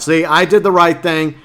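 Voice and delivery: usual speaking voice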